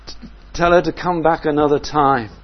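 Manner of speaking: hungry travellers begging to move on; weary disciples. Retold or imitated. Tired disciples pleading with Jesus.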